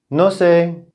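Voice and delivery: high-pitched mock wife voice; bad wife impression. Wife answering his dinner question, badly imitated high voice. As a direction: pitch it way up as a poor imitation of her. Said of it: "not a good impression of her voice".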